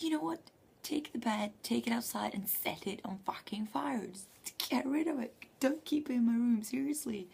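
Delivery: half-joking panic, ordering him to burn it; mock frantic demand.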